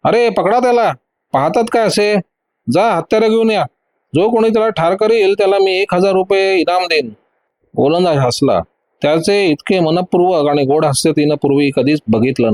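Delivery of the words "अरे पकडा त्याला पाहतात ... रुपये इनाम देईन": higher, urgent shouted commands; villain shouting at his men, pitched high; shouting orders. Acted. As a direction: bark orders at the crew. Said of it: "जोरात ओरडून म्हणाला".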